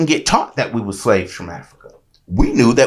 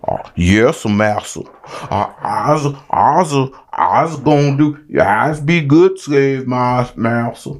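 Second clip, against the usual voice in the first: a hint of a slow, low mocking slave dialect; lightly voiced servile slave, drawn out; 3 semitones lower, slower than usual. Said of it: "never heard anybody talk like that".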